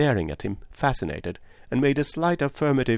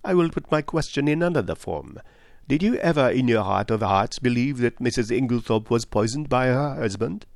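higher-pitched, earnest detective; Poirot; 3 semitones higher than usual. Acted. Detective asks a woman for a truthful answer, earnest. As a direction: press the question politely.

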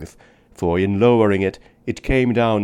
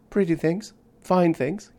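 put-on much higher eager little-girl voice; a child showing off her treasures; enthusiastic child; 9 semitones higher than usual. A narrator's reading. Little girl to the man about her mica, high eager child voice. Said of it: "cried the little girl enthusiastically".

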